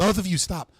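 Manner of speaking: loud, firm command; heated family shouting. Real, not acted. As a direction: shout them both down. Moderator shouting both down.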